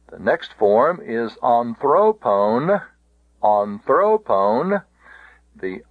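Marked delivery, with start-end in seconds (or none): 1.4-4.8 "anthropone" slowly, THRO stressed, pone long; stress on penult. Shown as a demonstration.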